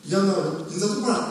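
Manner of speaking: quick, rattled-off mock scolding; imitated nagging. Parent reminding child to greet properly, quick mock nagging. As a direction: nag the child in a hurry. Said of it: "막 이렇게 또 잔소리를 해요".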